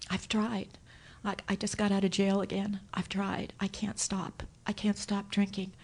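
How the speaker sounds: whispering the son's broken words; soft near-whisper of defeat; quiet retold plea; hushed confession.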